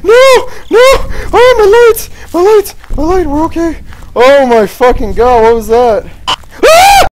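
high, loud frantic yells; real terror, shrieking while fleeing; panicked screaming. Real, not acted. Chased again, screaming in panic.

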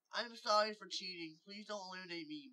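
high, hurried begging; urgent high-pitched apology; pleading. Acted. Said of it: "Mighty pleaded".

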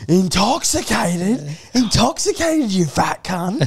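high-pitched, drawn-out indignant echo; mock outrage, stretched and rising; outraged disbelief. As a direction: imitate an affronted drunk, voice shooting up. Acting out the offended drunk man.

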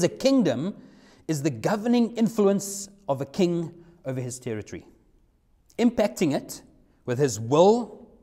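slow, deliberate quotation with pauses between phrases; slow reading. Real, not acted. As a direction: read the definition out slowly, phrase by phrase. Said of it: "I'm gonna read it slowly".

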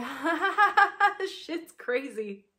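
hammed-up cackle building high and loud; mocking belly laugh at a rambling share; mock laughter. Group mocking laughter, retold.

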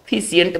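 "फिशिएंट" in three syllables, fi-si-ent; common mispronunciation. Shown as a demonstration. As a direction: put an extra i before the ending of "फिशिएंट". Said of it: "फिशिएंट बोलते हैं". ("फिशिएंट" का गलत उच्चारण, फि-सि-एंट)

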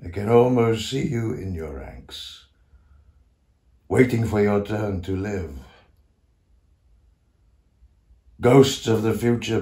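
a measured, ringing summons; solemn invocation. Acted. Old composer calls to ghosts of the future, solemn invocation. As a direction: call out to unseen spirits with weight.

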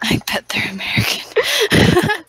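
high, drawn-out mimicry; mocking echo. Girl mimicking her friend's remark, mocking echo. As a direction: parrot it slowly in a high mock voice.

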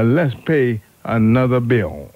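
normal talking voice

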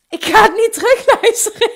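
real laughter over her own habit; laughing. Real, not acted. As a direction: laugh it off loudly mid-sentence. Laughing off listening back.

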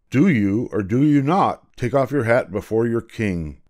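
mildly indignant royal demand; imperious challenge. Acted. King challenges the boy over his hat, imperious. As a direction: challenge him as an offended king.

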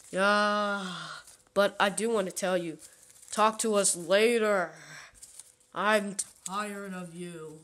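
loud, fed-up; loud brush-off. Acted. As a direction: shout them away. Brushing off the other.

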